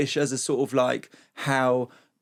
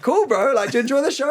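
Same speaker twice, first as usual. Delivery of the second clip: dry comic reply; 12 semitones higher, 4 dB louder than usual. Retold or imitated. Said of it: "I'm like".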